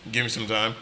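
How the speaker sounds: normal talking voice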